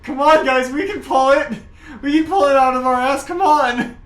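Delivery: high, urgent field calls; quarterback rallying team. Acted. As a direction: urge the team on desperately. Acts quarterback rallying absent team.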